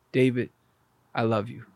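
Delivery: low, soft, unhurried declaration; quietly voiced "I love you"; tender quoted message. Quotes visitor's loving words.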